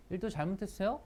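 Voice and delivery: soft, blunt accusing question. Shown as a demonstration. Teacher shows blaming a coworker for a mistake, accusing. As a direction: put the blame on them. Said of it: "이렇게 하는 거랑".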